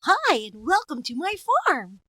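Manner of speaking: put-on high, laughing old farmer; cheery old farmer greeting. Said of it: "It's like".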